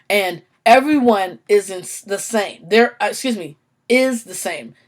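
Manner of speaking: halting stutter, restarting words. Real, not acted. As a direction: stumble over the words. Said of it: "I'm stuttering because that's part of my condition".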